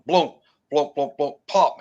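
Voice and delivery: imitated thuds ending in a pop; log thudding imitation. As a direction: sound out a log bouncing and popping. Imitates log hitting ground.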